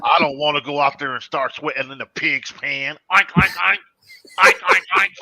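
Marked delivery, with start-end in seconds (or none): 3.1-3.8 pig oinking. Pretend. Pig noises in zoo banter. 4.4-5.1 high squealing oinks; high pig squeal. Pretend. Pig noises in zoo banter.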